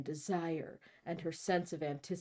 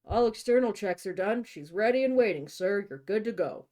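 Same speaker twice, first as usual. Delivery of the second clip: lightly voiced old pilot; 3 semitones higher, 5 dB louder than usual. Voicing Joe the pilot.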